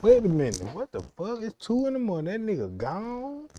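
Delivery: rising, startled questions; acted disbelief. Woman waking at two to find him gone, mock disbelief.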